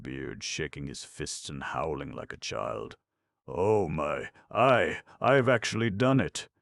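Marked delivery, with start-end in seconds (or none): 3.5-6.5 high, trembling amazement; quavering. Acted. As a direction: quaver it, stunned at what you did. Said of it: "quavered the goat girl".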